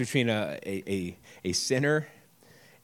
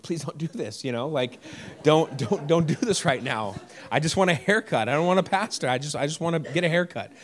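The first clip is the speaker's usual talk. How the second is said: mock pleading; 4 semitones higher than usual. Retold inner plea in barber chair.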